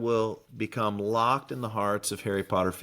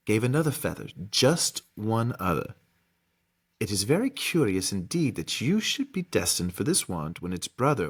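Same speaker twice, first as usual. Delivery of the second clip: lightly voiced mysterious old wandmaker; deliberate, with weighty pauses; wandmaker character. Wandmaker revealing the twin feather to Harry, lightly acted gravity. Reads Ollivander's revelation to Harry.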